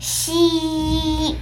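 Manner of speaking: 轻轻发出し的嘘声; 像让人安静一样嘘; hushing shh. Acted. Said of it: "静かにしよう". (轻声嘘)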